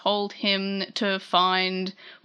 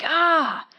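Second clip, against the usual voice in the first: mock "ah" of pain, higher pitch; pained cry; 8 semitones higher, 3 dB louder than usual. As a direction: cry out as a retold character. Retold cry of head pain.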